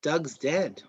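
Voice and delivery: half-successful Australian accent; lightly put-on Australian accent. Shown as a demonstration. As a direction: demonstrate a rough Australian accent. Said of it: "do it with an Australian accent".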